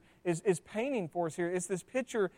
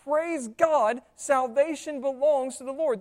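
shouted praise; 3 semitones higher, 5 dB louder, slower than usual. Retold or imitated. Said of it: "They shout".

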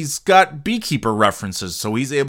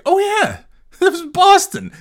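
much higher, laughing it out; laughing realization; 5 dB louder than usual. Retold or imitated. Remembering the film was set in Boston, laughing excitement. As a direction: laugh as it finally clicks. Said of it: "It's like".

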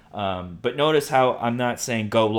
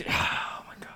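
exasperated whisper; 4 dB quieter than usual. Real, not acted. Exasperated by imagined listener objections.

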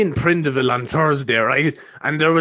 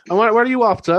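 guard questioning; 8 semitones higher, 3 dB louder than usual. Retold or imitated. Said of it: "he's just like".

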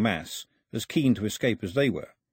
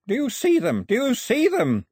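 gasping cry; 14 semitones higher, 5 dB louder than usual. A narrator's reading. Priest urging boy to see gods, gasping cry. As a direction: force it out, high and strained for air. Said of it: "the priest managed, in between great gasps".

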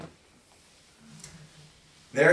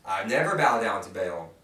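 louder, higher pleading cry, slowing on served you faithfully; crying out to God; 5 semitones higher, 6 dB louder than usual. Shown as a demonstration. Preacher acting Elijah pleading to God, raised voice. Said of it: "he's crying out to God".

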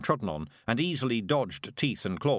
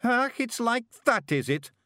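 defiant Scottish pictsie; 12 semitones higher, 4 dB louder than usual. Acted. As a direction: dare the lion, higher and louder, in broad Scots. Rob answers the lion.

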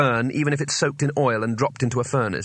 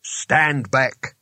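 rasping, terse order; lightly rasped command. A narrator's reading. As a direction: rasp out a warning to keep clear. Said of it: "he rasped".

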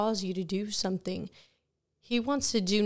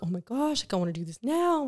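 a touch of eager rush; retold excitement; 3 semitones higher, faster than usual. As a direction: relive the excitement, quickly. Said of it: "I get excited".

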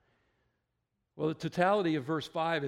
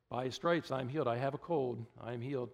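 "By his stripes, I'm healed" rattled off lightly as a slogan; mock formula recital. Preacher mimicking believers' healing formula, mildly mocking. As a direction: parrot the verse like a rote formula, lightly mocking. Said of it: "make it a formulaic".

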